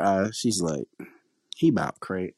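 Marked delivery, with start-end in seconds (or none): 1.6-2.3 tired aunt. Retold or imitated. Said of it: "just the way she is".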